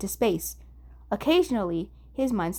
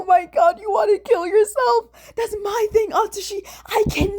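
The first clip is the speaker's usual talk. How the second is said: much higher, loud, near-crying whine; hysterical wail; 12 semitones higher, 8 dB louder than usual. Acted. Dazai shrieking at Atsushi, loud hysterical near-crying dismay. Dazai screaming, three men screaming.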